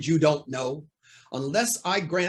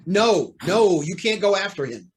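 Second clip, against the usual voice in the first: urgent protest; 2 semitones higher, 5 dB louder than usual. Acted. Judge stops Hornet giving chase.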